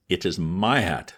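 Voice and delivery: icy and slow, each word weighed; a cold, nasty accusation. Acted. Old man accusing the young man of stealing his hat, icy and slow. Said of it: "coldest, nastiest voice I'd ever heard".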